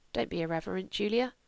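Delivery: mother checking her daughter's cheek; quiet rebuke. Acted. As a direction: rebuke her gently but firmly.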